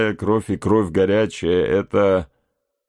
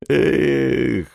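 rueful "ekh", pitched up; chagrined; 4 semitones higher than usual. Acted. Hawkeye regrets missing the trinket, chagrined. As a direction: let out a vexed, regretful sigh-word. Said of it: "проговорил с огорчением Соколиный Глаз".

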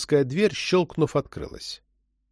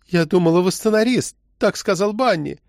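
alarmed; 7 semitones higher than usual. A narrator's reading. Frightened woman, told she is arrested.

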